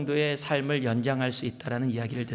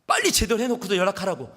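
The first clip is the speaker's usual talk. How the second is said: fast, higher mock scolding order; mock angry order; 5 semitones higher, faster than usual. Husband on the phone scolding his wife, fast mock irritation. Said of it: "막 화를 내면서".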